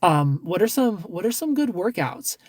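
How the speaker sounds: lightly hammed-up innocent request; mock sweet ask. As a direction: sweetly ask him for workout tips. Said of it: "be like".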